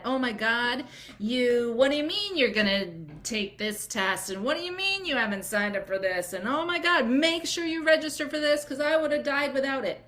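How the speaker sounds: high, gushing busybody voice; mock overbearing friend piling on advice; pushy advice-giver. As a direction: gush unwanted advice like a nosy stranger. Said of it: "everyone ... coming out of the woodwork to tell you what to do".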